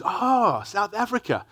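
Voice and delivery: lightly mocking an eager, clueless stranger. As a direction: imitate someone cheerfully clueless about Africa. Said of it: "the conversation after that ensues".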